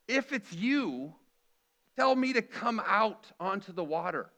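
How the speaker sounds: bold Peter. Retold or imitated. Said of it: "Peter ... says".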